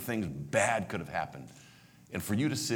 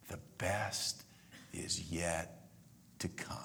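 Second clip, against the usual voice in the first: much softer, wistful; wistful hush; 2 semitones lower, 11 dB quieter, much slower than usual. Real, not acted. Preacher musing on the phrase, softly. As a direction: say it as a longing sigh.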